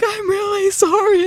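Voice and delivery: high, squeaky apology through giggles; reenacted helpless-giggle sorry; laughing apology. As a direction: act out failing to hold it together. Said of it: "and I'm just laughing".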